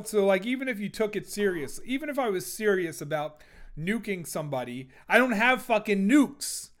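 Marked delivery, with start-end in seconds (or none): 5.1-6.7 loud, high disbelief; exasperated. Real, not acted. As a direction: throw up your hands at it. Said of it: "It's just ridiculous".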